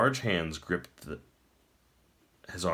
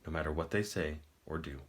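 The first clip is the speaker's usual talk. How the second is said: hushed self-warning; 3 semitones lower, 7 dB quieter than usual. A narrator's reading. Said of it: "he warned himself".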